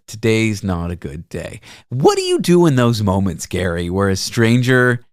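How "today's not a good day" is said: mild retold sadness; soft, slow and a little low; quiet sad quote. Driver telling passenger his day is bad, quietly. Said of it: "and he said".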